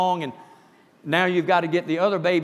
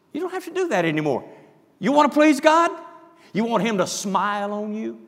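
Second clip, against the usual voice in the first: Jesus pleading; 4 semitones higher than usual. Retold or imitated. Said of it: "Jesus was trying to tell those religious people".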